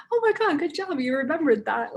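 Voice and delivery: high, loud, delighted gush of praise; excited praise. Retold or imitated. Teacher cheering a sixth grader who said hola, excited high praise. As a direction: gush over the kid like she just aced it.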